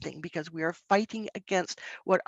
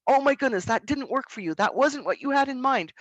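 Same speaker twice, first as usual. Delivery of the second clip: put-on a touch higher, mirroring the child's upset; lightly voiced empathetic parent; reflecting back emotion; 5 semitones higher, 3 dB louder than usual. Shown as a demonstration. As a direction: show the child you feel it with them. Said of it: "we have to reflect back that emotion".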